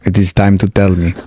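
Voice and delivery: deep, slow menace of a villain interrogator; low and threatening, like a spy movie; menacing interrogator. Pretend. Mock interrogator voice, much lower.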